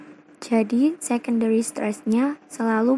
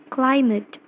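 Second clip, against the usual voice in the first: "climate" with the weight on opening "cli"; stress on first syllable CLI; 3 dB louder than usual. Shown as a demonstration. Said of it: "has a primary stress in the first syllable".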